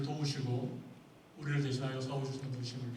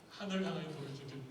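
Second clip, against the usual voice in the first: 하늘을 향하여 부르짖어 기도 repeated fast and softer; quick softer recap; 4 dB quieter, faster than usual. Shown as a demonstration. Preacher quickly repeats the verse's key phrase, softer. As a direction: toss the phrase back quickly, quieter. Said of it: "하늘을 향하여 부르짖어 기도하였다는".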